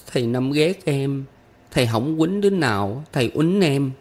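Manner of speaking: put-on high-pitched child complaining about the teacher; small girl's high, plaintive voice; aggrieved little girl. A narrator's reading.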